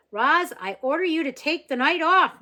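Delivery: father mock-orders the robot, laughing. A narrator's reading. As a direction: joke with the robot, half laughing. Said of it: "Mister Sharif laughed".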